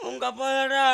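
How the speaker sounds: hammed-up tearful wail; mock crying. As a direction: wail it out, dragging the last word. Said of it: "இப்ப நீ ஏன் அழுகுற?". (போலி அழுகைக் குரல்)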